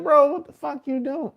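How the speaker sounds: high-pitched incredulous challenge to a buddy; mock disbelief. Acted scolding of a buddy.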